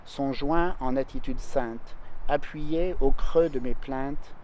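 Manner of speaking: measured, grave French verse reading; poem recitation. Acted. Singer reads the whole poem to her listener, solemn and measured.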